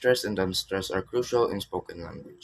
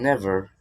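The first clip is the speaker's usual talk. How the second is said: "never" punched louder; stress on "never"; 6 dB louder than usual. Shown as a demonstration. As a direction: hit the word "never".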